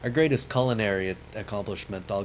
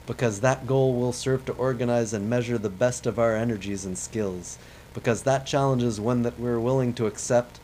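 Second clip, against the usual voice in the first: louder, a hint of Kennedy oratory; Kennedy speech; 2 semitones higher, 4 dB louder than usual. Gamer finishes the moon speech, lightly voiced Kennedy. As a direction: read it like a rousing mock address. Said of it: "I wish I could do a good accent for this guy".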